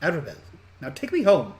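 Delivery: put-on bossy little girl, rising in pitch; ostentatious young girl. Girl giving her name and ordering rescuers, bossy and haughty. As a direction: give orders like a spoilt child. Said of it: "most ostentatious, uh, ten-year-old girl".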